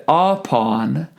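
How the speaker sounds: "upon" said slowly as AH-pon, with a full first vowel; wrong syllable emphasized. Shown as a demonstration. Choir teacher showing singers a mistake, first syllable overemphasized in "upon". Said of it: "incorrectly emphasizing parts of the word".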